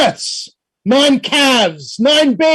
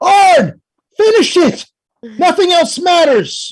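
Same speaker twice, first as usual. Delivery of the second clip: firm, urgent, commanding tone, in character; 4 semitones higher than usual. Game master voices Stanislav, who sees Arn hesitate; Stanislav shouting. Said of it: "he shouts out".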